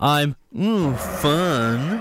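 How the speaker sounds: put-on drunken voice, slurred. Reading a quoted headline line when asked, put-on drunken voice. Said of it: "read it in a drunken, uh, stupor".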